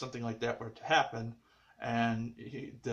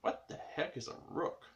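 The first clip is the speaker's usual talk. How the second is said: confused question; 11 dB quieter than usual. Retold or imitated. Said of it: "And he's like".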